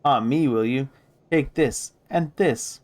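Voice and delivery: rising scolding as blows land; angry outburst. Acted. Marta pounding the corpse in anger.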